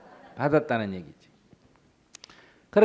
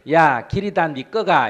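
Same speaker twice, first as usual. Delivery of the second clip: loud, slow, raised shout; angry shout; 6 semitones higher, 11 dB louder, slower than usual. Retold or imitated. Beggar shouts back at the owner, angry and slow. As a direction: fire back, drawing it out.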